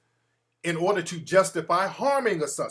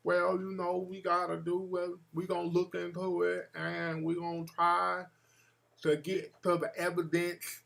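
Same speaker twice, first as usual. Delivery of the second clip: Stepin Fetchit; 8 dB quieter than usual. Acted. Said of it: "sounding like Stepin Fetchit".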